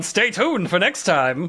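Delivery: put-on slow, lilting old newsreel announcer; old-timey news voice. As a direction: sign off like a vintage newsreel. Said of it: "old-timey news voice coming on".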